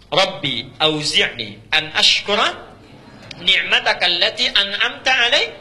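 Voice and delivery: slow chanted Arabic prayer; Quran recitation. Acted. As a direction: draw the verse out, melodic.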